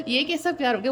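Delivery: asked through a real laugh; can't keep a straight face. Real, not acted. Reader laughing at the partner's idea of love, to the viewer. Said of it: "मुझे तो हंसी आ रही है".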